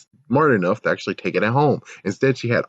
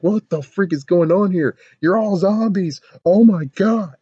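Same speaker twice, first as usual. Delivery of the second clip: much higher, panicked rant; mock freak-out; 11 semitones higher, 4 dB louder than usual. Guard panics at zombies, voice pitched high. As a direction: freak out like a man seeing zombies. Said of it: "freak out and be like".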